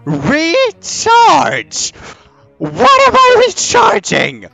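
high panicked squeal; scared horror game streamer. Real, not acted. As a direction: freak out, voice way up. Panicking at controls.

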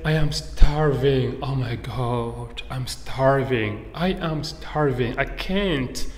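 slow, drawn-out moan of hunger; starving. Shown as a demonstration. Teacher acts out slang for hungry, starving. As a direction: stretch the words out, famished.

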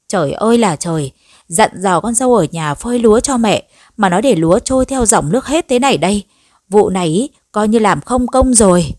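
scolding lament. Acted. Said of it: "Bà Loan liên tục chửi bới".

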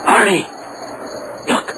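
sudden high alarmed call; startled cry. Acted. Jim alarmed at rope in the car seat, calling Arnie. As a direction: grab his attention in shock.

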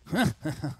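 loud evil villain cackle; sardonic laugh. Pretend. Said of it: "Rire sardonique".

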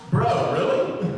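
mock-incredulous ribbing; sarcastic. Jesus imagined ribbing Nathanael, sarcastic. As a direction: tease a buddy with feigned disbelief. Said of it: "Jesus is gonna be sarcastic here".

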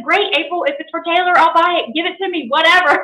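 retelling an eager yes; eager retold reply.

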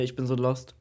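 ordinary talk

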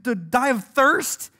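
mock crying complaint. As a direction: moan it in mild mock despair. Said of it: "once again, are crying".

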